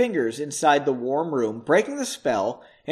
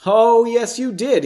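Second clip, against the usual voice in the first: higher, louder, lightly teasing retort; countering; 6 semitones higher, 6 dB louder than usual. A narrator's reading. Henry countering Margot's denial, emphatic comeback. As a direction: contradict her with lifted voice. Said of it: "he countered".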